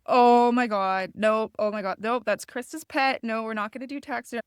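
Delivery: imitating her flustered partner shutting it down; partner's alarmed refusal. Her partner refuses the boy's taxidermy plan, in a mock-panicked loud voice. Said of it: "he's just like".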